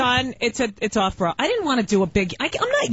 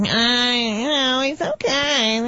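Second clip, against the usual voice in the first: whiny nurse; much slower than usual. Retold or imitated. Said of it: "the whiniest Jew voice".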